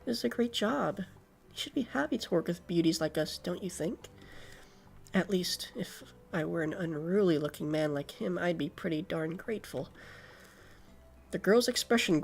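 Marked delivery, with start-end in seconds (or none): 0.0-9.9 bratty voice. Acted. Voices bratty character, softer.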